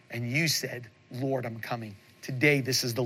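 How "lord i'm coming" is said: soft humble reply. Retold or imitated. Voicing a believer's soft reply.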